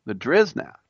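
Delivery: "Driznaft" with the playful slang "-izn-" inserted; kids' slang. Retold or imitated. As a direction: say "Driznaft" like the kids would. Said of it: "the kids would say".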